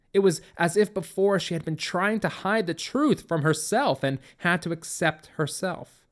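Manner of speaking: plain reading voice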